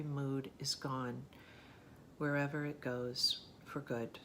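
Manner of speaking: measured poetry recitation with pauses at phrase ends; unhurried, even-toned reading of an elegy; poem reading. Acted. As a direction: recite it solemnly, line by line. Reads a poem aloud.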